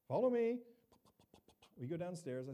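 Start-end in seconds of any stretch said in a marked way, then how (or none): 0.1-0.6 curt, louder command; gruff order. Retold or imitated. Pool guy leading the pastor downstairs, curt and louder. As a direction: snap it like a man who hates small talk. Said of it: "he's pretty gruff".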